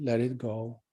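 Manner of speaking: ordinary delivery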